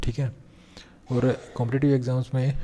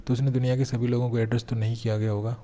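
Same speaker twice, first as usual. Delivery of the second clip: ordinary talk, nothing marked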